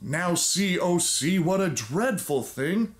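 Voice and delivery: a hammed-up bedtime story reading; storybook reading. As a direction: read it like a dramatic old storybook.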